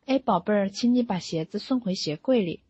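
mild, tender demonstration of asking nicely; gentle request. Shown as a demonstration. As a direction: ask a child kindly and politely. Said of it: "我自己本身说话就比较温柔".

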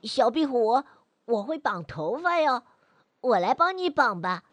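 put-on happy boy voice. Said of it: "高兴地说".

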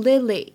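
"lily" with both vowels made the same; wrong Lily pronunciation. Shown as a demonstration. Teacher shows students a mistake, "lily" with matching vowels. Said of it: "你不能读成lily".

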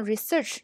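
research broken into re and search with a pause; split into syllables. Shown as a demonstration. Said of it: "这个词有几个音节呢".

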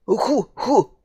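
sniffling. Acted. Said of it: "豪猪吸着鼻子说".

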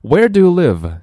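high, loud, eager question; excited child. Acted. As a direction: ask it like a thrilled kid. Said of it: "小孩子很兴奋".

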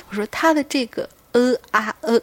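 demonstrating a dying groan; zombie groan demo. Shown as a demonstration. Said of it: "他打字写的是呃啊呃啊".

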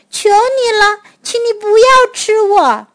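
high-pitched parrot pleading for its life; crying out. A narrator's reading. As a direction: cry out a plea, pitched high. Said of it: "鹦鹉大叫起来".

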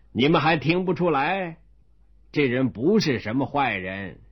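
a hint of chuckling official; lightly voiced laughing magistrate; amused magistrate. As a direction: call them back, still laughing. Amused magistrate calls servants back.

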